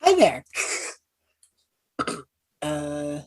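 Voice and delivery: put-on nervous young traveler hailing guards; calling out. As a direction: shout a friendly hello to distant riders. Character calling out through fog.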